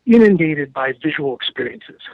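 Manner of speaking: winded, pushing words out between breaths. Real, not acted. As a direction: talk while short of breath. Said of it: "I'm out of breath".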